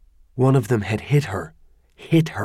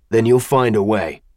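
hard, implacable; 4 dB louder than usual. Acted. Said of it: "The stranger's voice was hard, implacable".

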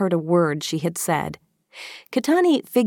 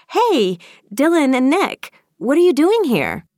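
high, loud call to friends; bubbly, pitched-way-up greeting; excited greeting; 9 semitones higher, 5 dB louder than usual. Acted. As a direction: squeal hello in surprise. Girl calls out to friends.

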